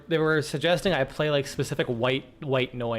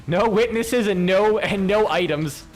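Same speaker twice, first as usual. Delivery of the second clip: echoing game voice; 6 semitones higher, 5 dB louder, slower than usual. Retold or imitated. Echoing the game's voice line.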